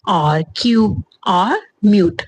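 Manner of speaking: breathy, unvoiced reading of the words; whispered word list. Shown as a demonstration. (फुसफुसाकर शब्द पढ़ना)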